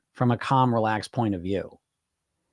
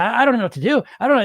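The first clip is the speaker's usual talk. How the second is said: higher and louder, a flustered plea; imitating a lost, anxious client; panicked client; 10 semitones higher, 5 dB louder, much faster than usual. Clients freaking out, quoted.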